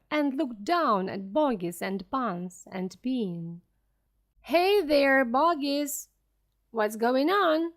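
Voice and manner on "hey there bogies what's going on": calling out. Acted. Crowd calling down into crater.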